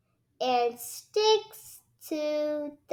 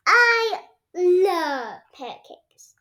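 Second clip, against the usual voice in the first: higher, louder, slow and drawn out; Peppa loving pancakes; 6 semitones higher, 8 dB louder, slower than usual. A narrator's reading. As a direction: savour every word like a greedy child. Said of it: "says Peppa".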